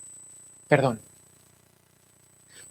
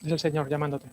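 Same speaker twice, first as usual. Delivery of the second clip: soft voice; 3 semitones lower, 10 dB quieter than usual. Acted. Voz muy suave.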